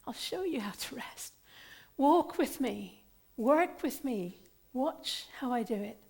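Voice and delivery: gentle, hushed scripture reading; tender reading. Acted. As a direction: soothe the weary listener. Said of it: "Jesus said this so beautifully".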